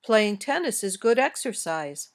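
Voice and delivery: falling end on "exercise"; statement intonation. Shown as a demonstration. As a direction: lift "exercise", then let it fall. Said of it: "Your voice goes up on an important word".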